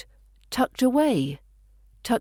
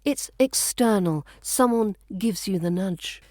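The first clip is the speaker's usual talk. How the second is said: ordinary talk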